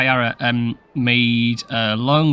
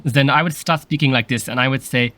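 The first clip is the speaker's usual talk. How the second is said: slightly camp German man's voice; camp German accent; 3 dB louder than usual. Shown as a demonstration. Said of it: "slightly camp German man".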